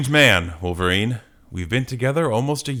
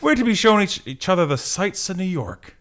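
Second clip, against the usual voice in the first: high-voiced Gene; 8 semitones higher, 5 dB louder than usual. Re-reading Gene's line, high.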